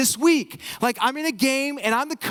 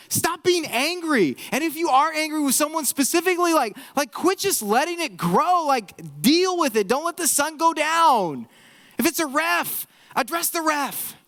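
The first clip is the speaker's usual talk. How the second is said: higher-pitched, urgent mock scolding; exasperated exhortation; 5 semitones higher than usual. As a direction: plead with them to snap out of it. Voices biblical writer exhorting the angry.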